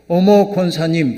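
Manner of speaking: slow, delighted "어머" drawn out; mock glad cry of recognition; surprised greeting. Preacher imitating a woman greeting the deaconess with surprise. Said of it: "이렇게 외쳤답니다".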